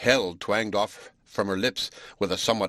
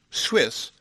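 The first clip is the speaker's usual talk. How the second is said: indignant; 5 semitones higher than usual. Acted. Francis catching an insult.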